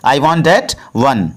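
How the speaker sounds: very slow, every word laid out for learners; slow, careful model sentence; slow teaching demo. Shown as a demonstration. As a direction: spell it out slowly for the class. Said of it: "ये सिखाएंगे कि English में इसे कैसे बोलेंगे".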